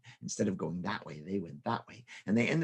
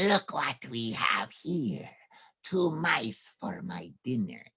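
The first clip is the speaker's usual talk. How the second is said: slow, lightly voiced villain cat; a hint of a hungry cat; sly cat; slower than usual. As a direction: gloat slowly over the mice. Cat voiced menacing mice.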